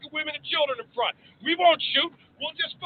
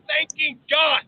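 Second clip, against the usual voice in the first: shouted climax; slower than usual. Acted. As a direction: shout the word God. Climax of the speech.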